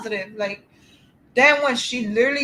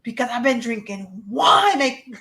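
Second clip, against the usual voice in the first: mock confession; slower than usual. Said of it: "I'm like".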